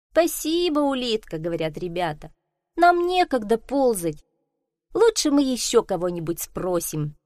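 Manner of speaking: a hint of eager kids; children's voices. Children answer snail. (слегка детские голоса)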